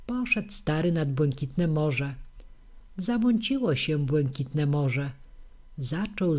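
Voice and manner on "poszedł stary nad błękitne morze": ordinary delivery, nothing marked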